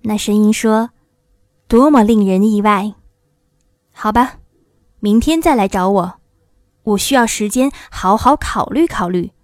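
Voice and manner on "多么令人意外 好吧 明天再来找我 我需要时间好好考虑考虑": firm, solemn wizard, a touch louder; lightly voiced stern ruler. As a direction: dismiss them with measured authority. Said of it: "一个严肃的声音".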